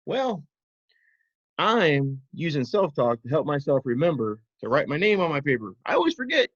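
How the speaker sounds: high puppet voice, eager; squeaky little puppy explaining. Pretend.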